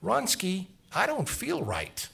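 high, slow imitation of the girlfriend; calling across the hall. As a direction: draw it out high, as if to someone in another room. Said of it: "I hear her say across the hall".

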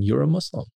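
"Muslim" declared in a lifted voice, as if stating who someone is; Dalai Lama declaration. Retold or imitated. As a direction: quote him restating "Muslim" as a fact. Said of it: "he says again".

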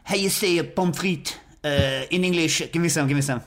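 lightly faked French accent; fake French accent. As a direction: ask for fries in a put-on French accent. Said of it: "with a fake accent".

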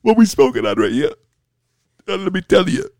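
lightly drawled, stretched stoner voice; exaggerated cartoon intonation. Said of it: "Why are you talking like that, bro?".

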